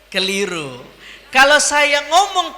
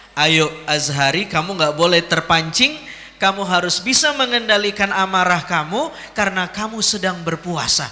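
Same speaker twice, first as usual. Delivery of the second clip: self-talk; 5 semitones lower than usual. Acted. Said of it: "Ngomong ke diri sendiri".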